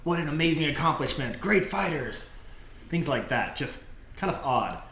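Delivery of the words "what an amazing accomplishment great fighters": creatures' praise. Acted. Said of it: "hear them saying things like".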